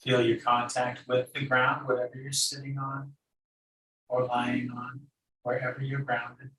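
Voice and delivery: calm meditation guide with long pauses; unhurried, even meditation instruction; guided meditation. Acted. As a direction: guide them gently inward, leaving long silences.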